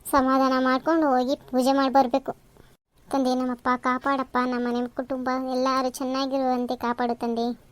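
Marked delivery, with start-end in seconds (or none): 3.1-7.7 slow, subdued acted prayer; praying. Mother-in-law praying for the household's well-being, slow and hushed. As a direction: plead slowly with God. Same prayer heard again.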